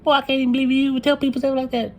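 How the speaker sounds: high, disapproving mother's voice; scolding mom. Retold or imitated. Mom watching the video, scolding her son in a high disapproving voice. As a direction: chide him like a shocked mother. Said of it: "She probably gonna watch it like".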